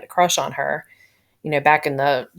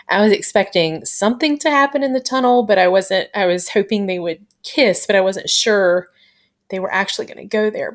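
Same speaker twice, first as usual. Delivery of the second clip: higher, excited fan gushing; 3 semitones higher than usual. Real, not acted. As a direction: squeal it out like a thrilled fan. Gushing about the kiss scene.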